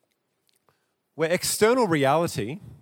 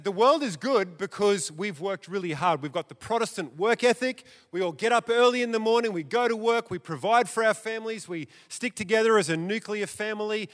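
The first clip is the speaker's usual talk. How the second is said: lightly voiced proud believer, a bit higher; proud modernist creed; 4 semitones higher than usual. Preacher voicing old modernists to congregation, mild proud recital. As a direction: recite their creed with smug pride, quickening.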